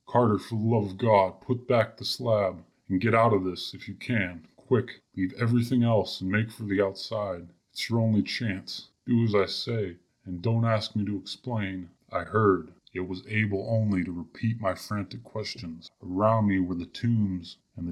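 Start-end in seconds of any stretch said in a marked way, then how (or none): 0.1-11.9 wild consternation. Acted. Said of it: "in a pitch of wilder consternation".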